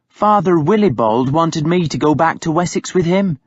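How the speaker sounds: lightly voiced nun telling her own choice; Hild, firm woman. A narrator's reading. Hild telling Uhtred she refused the priest, lightly voiced.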